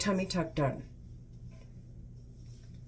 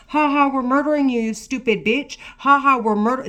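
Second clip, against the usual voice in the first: fast, higher, louder mock taunt; mocking taunting voices; 5 semitones higher, 5 dB louder than usual. Ranting woman mimics the voices mocking her. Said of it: "That's what they're saying in my fucking head".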